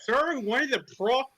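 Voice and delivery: lightly voiced goofy cartoon coach. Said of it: "what happened to your voice?".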